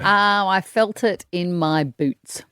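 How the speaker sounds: slow, proud pirate boast. Pretend. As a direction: brag like an old pirate. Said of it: "doing the pirate voice today".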